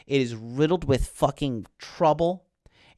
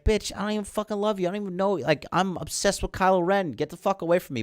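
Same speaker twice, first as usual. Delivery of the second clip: Rey rebuffing; 5 semitones higher, 4 dB quieter, faster than usual. Retold or imitated. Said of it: "And she's like".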